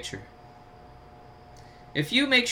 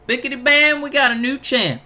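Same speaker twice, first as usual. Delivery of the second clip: excited cheer; 8 semitones higher, 6 dB louder than usual. Real, not acted. Celebrating his wrestler's title win.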